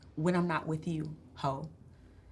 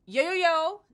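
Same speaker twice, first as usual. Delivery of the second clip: loud, high, punchy hype intro; big brash welcome, pitched up; hype podcast host; 4 semitones higher, 4 dB louder than usual. Acted. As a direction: burst in like a hyped-up host. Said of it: "Why are you talking like that?".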